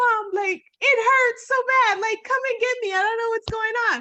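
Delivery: mock, very high, loud, tearful crying plea. Retelling a phone call to mom while in pain: retelling own crying plea. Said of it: "I'm crying because".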